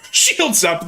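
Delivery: high, loud captain's order; mock commander. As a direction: call it like a starship captain. Repeats command.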